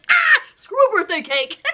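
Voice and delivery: real giddy outburst; giddy shout. Real, not acted. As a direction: whoop it out. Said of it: "I'm so giddy".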